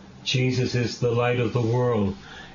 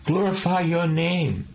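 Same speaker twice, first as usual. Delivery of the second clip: glorify lifted higher, ringing out; raised proclamation; 5 semitones higher than usual. Shown as a demonstration. Preacher repeating Jesus's words to the congregation, higher and ringing. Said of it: "Jesus is all about the Father".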